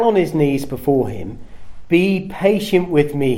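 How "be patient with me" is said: begging. Acted. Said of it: "he begged".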